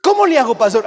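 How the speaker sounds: pleading parent. Pretend. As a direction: beg the pastor for help. Parent asking pastor.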